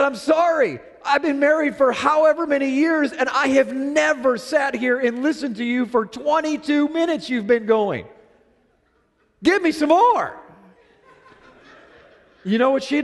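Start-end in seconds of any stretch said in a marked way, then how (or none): 0.0-10.3 husband cracking up as he explains himself; laughing apology. Retold or imitated. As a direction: apologize while you can't stop laughing. Husband laughing while apologizing to wife.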